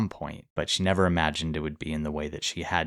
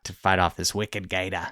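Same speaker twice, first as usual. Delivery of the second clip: lightly attempted Boston accent. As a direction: try a rough Boston accent, r's dropped. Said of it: "how do you do your Boston accent".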